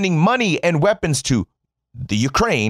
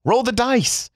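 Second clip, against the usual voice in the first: incredulous echo; 9 semitones higher than usual. Real, not acted.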